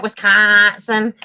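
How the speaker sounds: put-on Wisconsin accent. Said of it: "That's how they said it".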